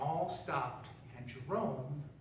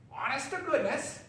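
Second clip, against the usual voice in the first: surprised; 9 semitones higher, 5 dB louder than usual. A narrator's reading. Crow astonished at frog.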